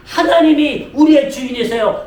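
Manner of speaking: rising, driving sermon delivery; forceful preaching. Real, not acted. Pastor telling the congregation to live by God's will, forceful preaching. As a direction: drive it toward a ringing declaration of faith.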